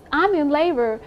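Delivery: retold plea, rising to a shout on help; a hint of cussing out the doctor; desperate plea. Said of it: "I'm cussing him out".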